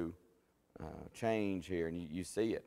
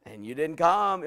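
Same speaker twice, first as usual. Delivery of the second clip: Saul's excuse; 5 semitones higher, 7 dB louder than usual. Acted. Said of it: "And so he says".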